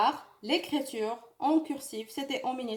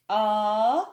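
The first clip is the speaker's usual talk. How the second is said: "A" called out loud for the class; loud model letter; 6 dB louder than usual. Shown as a demonstration. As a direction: call out "A" loudly. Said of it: "Je répète". (حرف A بصوت عالٍ)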